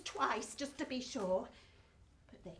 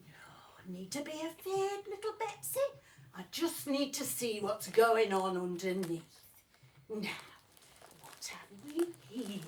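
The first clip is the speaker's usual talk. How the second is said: lower, hushed fatherly reassurance; father's voice; 4 semitones lower than usual. Acted. Father calming little Betsy, low and hushed. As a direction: soothe low and half whispered like a dad.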